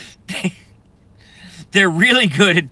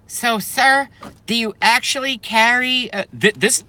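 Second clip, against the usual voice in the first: put-on kid's question voice; 8 semitones higher than usual. Retelling kid's question to Jeb.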